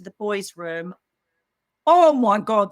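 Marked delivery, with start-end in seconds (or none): 1.9-2.7 shocked gasp. Retold or imitated. Horror on entering the kids' room.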